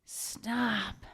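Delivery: very high, then fading mock plea; mock Yasmin plea. Yasmin stopping her friends' fight, in a high mock plea. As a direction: squeak it out then let it drop. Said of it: "she goes".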